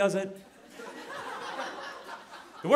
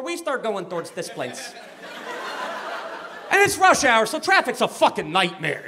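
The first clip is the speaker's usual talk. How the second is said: lightly voiced Chicago guy griping; a touch of Chicago superfan; Chicago accent. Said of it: "thick Chicago accent".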